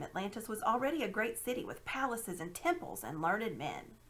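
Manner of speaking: a hint of a proud old scholar; lightly voiced uncle relishing his find; lightly voiced boastful uncle. Uncle Andrew on Atlantis.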